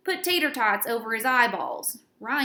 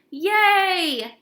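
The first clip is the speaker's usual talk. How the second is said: put-on high, loud girly cheer; squealing yay; excited cheer; 8 semitones higher, 9 dB louder than usual. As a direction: cheer like the thrilled girls. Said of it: "yelled all the girls".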